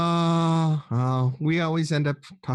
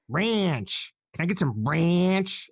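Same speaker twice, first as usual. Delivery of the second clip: nasal American; 2 semitones higher, slower than usual. Retold or imitated. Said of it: "talk with your nose".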